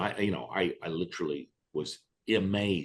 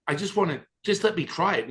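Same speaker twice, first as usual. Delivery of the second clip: higher begging push; higher insistent begging; pleading; 10 semitones higher, 5 dB louder, faster than usual. Retold or imitated. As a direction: beg to be let in. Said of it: "I said".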